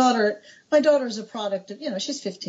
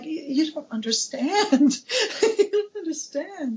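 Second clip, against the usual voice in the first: gushing; 7 semitones higher than usual. Retold or imitated. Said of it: "And I'm like".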